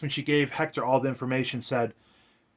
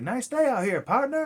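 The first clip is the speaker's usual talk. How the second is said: hammed-up cowboy; 10 semitones higher than usual. Hector in cowboy suit to the guard, hammed-up cowboy voice. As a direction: play the folksy cowboy way over the top. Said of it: "he's talking like that, hamming it up".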